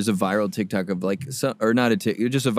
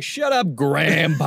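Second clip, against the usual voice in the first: mocking retort; 5 semitones higher, slower than usual. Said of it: "I'd be like".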